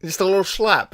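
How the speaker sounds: playful Connery echo, tossed off; repeating the Connery quote in a high mock Scottish voice; Sean Connery impression. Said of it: "one thing about Sean Connery and slapping".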